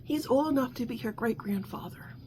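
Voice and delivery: hushed, scandalised whisper; quietly shocked gossip. Real, not acted. Gossipy disbelief about age gap.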